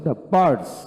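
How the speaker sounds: "the birds" with only a faint r; barely sounded r before the final ds in "the birds"; light r. Shown as a demonstration. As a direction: soften the r in "the birds" to a trace. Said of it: "আরটা হালকা হচ্ছে".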